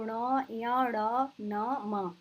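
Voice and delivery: ङ, ञ, ण, न, म recited one by one through the nose; teacher listing nasal ण, न, म sounds; nasal consonants demo. Shown as a demonstration. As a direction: sound out ण, न, म as separate nasal syllables. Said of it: "यानी नाक से बोला जाने वाला है".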